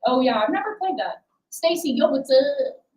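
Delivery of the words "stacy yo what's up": odd greeting voice. Real, not acted. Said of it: "Why did I talk like that?".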